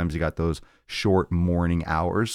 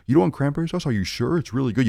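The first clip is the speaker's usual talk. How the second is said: high, coaxing hostess voice; pushy relative offering food; 8 semitones higher, faster than usual. Retold or imitated. Relative insisting the guest try cranberry sauce, high coaxing voice. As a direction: coax them to take a helping.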